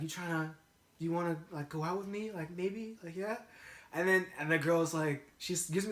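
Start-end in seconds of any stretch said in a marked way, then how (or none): 0.0-3.4 softer, halting, rising questions; tentative asking-out. Retold or imitated. Young chode asking a girl out, mildly tentative. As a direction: imitate a hesitant ask, lifting each ending.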